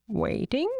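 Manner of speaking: lightly voiced raven, rising question; a hint of a questioning raven's croak. A narrator's reading. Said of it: "croaked the raven".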